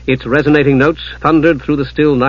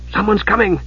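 higher-pitched urgent warning; 8 semitones higher than usual. A narrator's reading. Usha warning her companions at the door, urgent. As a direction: warn them urgently. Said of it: "Usha warned".

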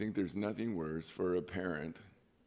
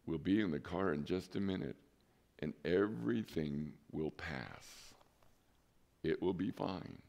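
put-on softly soothing the child; father quietly calming his screaming son at the register; quiet calm reassurance; 4 semitones lower, 6 dB quieter than usual. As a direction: hush him gently, unhurried. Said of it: "calmly saying over and over ... quietly".

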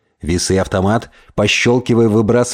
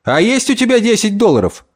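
higher-pitched, eager outburst; sudden exclamation; 10 semitones higher than usual. Acted. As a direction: blurt it out as a sudden question. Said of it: "он вдруг воскликнул".

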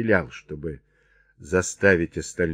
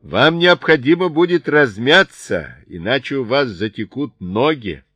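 raised, loud mocking advice; shouting down; 6 semitones higher, 6 dB louder than usual. A narrator's reading. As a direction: call it down to them, high and loud. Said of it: "кричал им Чарли вниз".

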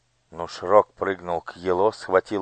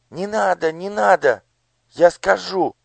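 high, panicked pleas; a child giving in to pain; desperate begging; 13 semitones higher, 5 dB louder than usual. Acted. Elo burned, begging. (отчаянная мольба)

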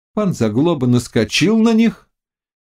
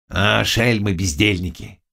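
grumbling; 3 semitones lower than usual. A narrator's reading. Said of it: "продолжал ворчать".

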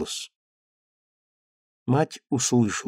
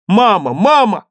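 put-on high loud call of a boy; excited boy yelling Mama; boy shouting for mom; 8 semitones higher, 9 dB louder than usual. A narrator's reading. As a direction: shout for mother across the house. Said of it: "Крик был всё тот же".

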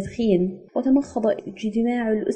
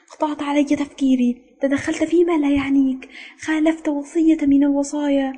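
higher, insistent list of charges; counting off faults; 6 semitones higher than usual. A narrator's reading. Superior lists a member's mistakes, counting them off sternly. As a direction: count off each offence in a raised pitch. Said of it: "وراح يعدد على أصابعه قائلًا".

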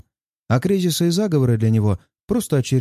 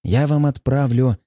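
light mockery; slower than usual. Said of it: "с лёгкой насмешкой".

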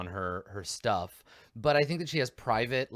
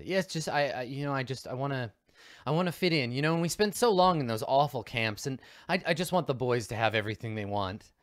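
halting, slightly raised pleading; nervous mother; 2 semitones higher than usual. Acted. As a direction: stammer out an earnest justification.

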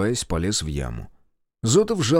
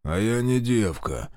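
pleased hooting; slower than usual. Acted. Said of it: "довольно заухал Павленко".

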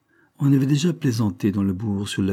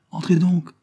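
appel plus haut et plus fort, vers la porte; crié; 9 semitones higher, 4 dB louder than usual. A narrator's reading. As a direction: lancer l'invitation à travers la pièce. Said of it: "elle cria sans se déranger". (elle crie à la porte sans se lever)

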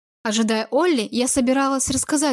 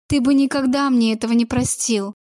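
ordinary delivery

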